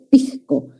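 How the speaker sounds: pisco with the S as a soft J, pixko. Shown as a demonstration. Teacher demonstrating the coastal aspirated S. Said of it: "debilitamiento de ese como una J suave".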